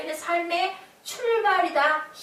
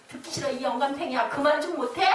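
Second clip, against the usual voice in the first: acted exasperation, building louder; mock-angry silencing, growing in force; irritated order; 4 dB louder than usual. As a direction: play a guard telling an old man to stop. Acting out gendarmes silencing old preacher.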